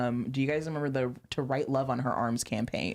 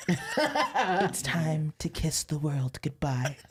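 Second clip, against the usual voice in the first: laughing; slower than usual. Retold or imitated. Reading old emo poem.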